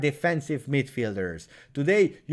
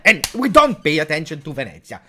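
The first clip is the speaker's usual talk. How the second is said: angry rant; 6 dB louder than usual. Real, not acted. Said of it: "ranting at his team".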